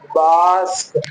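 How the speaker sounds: बास्क with a long open "aa" before the final cluster; drawn-out model pronunciation. Shown as a demonstration. Teacher models the word for reading learners, drawn out. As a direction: stretch the vowel in बास्क for learners. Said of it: "इस तरीके से".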